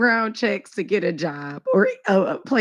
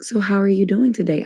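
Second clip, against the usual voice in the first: formal phrasing; faster than usual. Shown as a demonstration. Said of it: "And it wouldn't be like".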